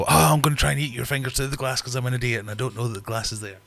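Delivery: a hint of a goofy fish voice; voicing the fish. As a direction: play the excited dim fish lightly. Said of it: "he'll come flying over and go".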